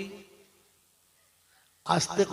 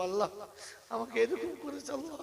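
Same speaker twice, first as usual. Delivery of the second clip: mock whining prayer; 7 semitones higher, 3 dB quieter, faster than usual.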